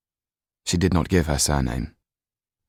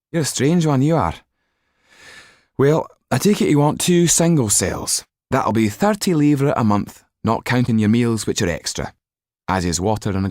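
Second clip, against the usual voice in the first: higher, louder mocking clerk; clerk's voice; 8 semitones higher, 5 dB louder than usual. A narrator's reading. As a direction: sneer at the odd old man.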